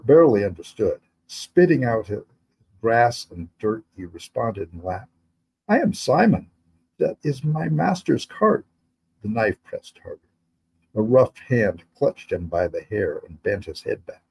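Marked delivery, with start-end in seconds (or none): 5.7-8.7 put-on higher young boy's voice, pleading; a scared boy pinned to the ground; boy Simon, higher and anxious; frightened boy. Boy Simon answering in Latin.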